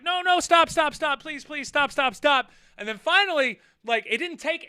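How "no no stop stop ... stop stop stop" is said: higher, louder plea to stop; pleading wife. Retold or imitated. Wife begging the two men to stop fighting, higher plea. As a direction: beg them to quit. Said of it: "wife walked over and was like".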